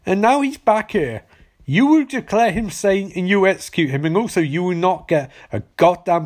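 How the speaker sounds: mock governor yell. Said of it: "the governor screams and says".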